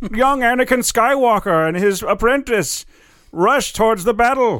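very high-pitched show announcer voice. Redoing the show intro the way the Clone Wars announcer would: Clone Wars announcer voice. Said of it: "so the announcer in the Clone Wars show".

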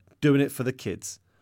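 ordinary delivery, nothing marked

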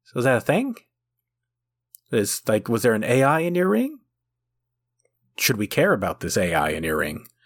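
ordinary delivery

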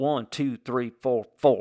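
put-on Southern accent with a counting cadence. Retelling how the coach counted out burpees, Southern coach accent. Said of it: "I'm using the accent because we were in the South".

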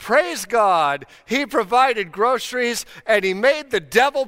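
play-acted, high-pitched shouting. Telling a joke about a woman and her atheist neighbor, imitating someone yelling. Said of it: "she yelled".

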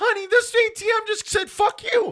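shrill hollering, pitched way up and loud. Telling a story, speaker acts out a man calling to his wife, retelling a yell. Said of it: "he yells to his wife".

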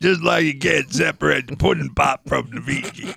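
slow, creaky, rough, drawn-out drawl. Answering a joke about separating things, in a Bill Cosby voice. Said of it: "I love that voice".

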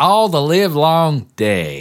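put-on weak Southern accent. Mimicking another speaker's attempt at a Southern accent. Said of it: "You were like".

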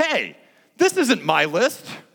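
put-on very high, loud, angry little boy voice. Retelling a boy reading someone's confession list aloud: mock-angry little boy voice. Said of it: "In an angry little voice".

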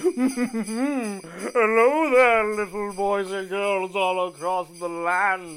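put-on voice dropped deep and low. Greeting little boys and girls everywhere: Santa Claus voice. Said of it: "It's me, Santa Claus".

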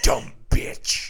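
put-on horror killer voice. Quoting the Scream killer's phone lines: Ghostface voice. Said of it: "Nobody says bitch like Roger L".

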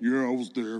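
put-on voice dropped way down, very deep. Recalling claiming to be there at fifteen, put-on very deep voice. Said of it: "voice dropped six octaves".

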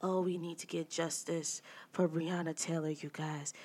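soft half-whisper, barely any voice. Retelling what she said to the group, imitating a half-whisper. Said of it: "Why the fuck you whispering?".

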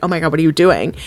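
put-on terrified voice. Retelling a sitcom scene: imitating terrified Niles. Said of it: "he's, like, terrified".

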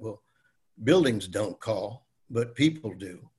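put-on American Southern accent. Retelling an Attorney General's reply to an aide, in Griffin Bell's Southern accent. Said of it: "he said in his Southern accent".

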